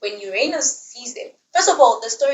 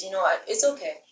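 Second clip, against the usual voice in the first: restrained fuming; 6 dB quieter than usual. Retold or imitated. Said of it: "fuming, but she says".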